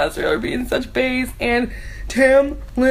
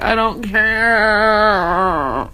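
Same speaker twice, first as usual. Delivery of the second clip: bored; 3 semitones lower, much slower than usual. Retold or imitated. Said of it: "I'm just like".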